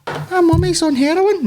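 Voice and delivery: high, slow comic Scottish voice; mock Scottish line to prove a point; Scottish accent. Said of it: "Scottish or Australian accents".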